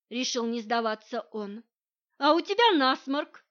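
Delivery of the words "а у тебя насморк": парируя. A narrator's reading. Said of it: "парировала".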